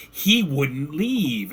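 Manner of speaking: disembodied voices. Acted. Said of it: "you start hearing voices around you".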